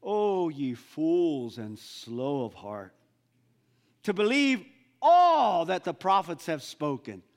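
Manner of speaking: slow, weighty scripture rebuke; solemn rebuke. Acted. Jesus rebukes the two disciples, slow and solemn. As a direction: rebuke them slowly, like scripture. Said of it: "one of the things he said".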